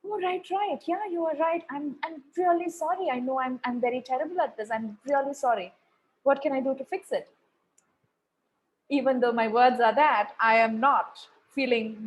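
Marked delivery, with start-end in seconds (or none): 0.1-7.3 butter them up with a sugary sorry; mock apologetic. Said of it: "And then I'm like".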